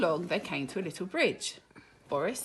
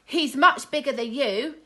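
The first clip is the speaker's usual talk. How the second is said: high, loud taunting boast; a cub bragging about his daddy; even more rudely; 9 semitones higher, 10 dB louder than usual. Acted. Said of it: "even more rudely".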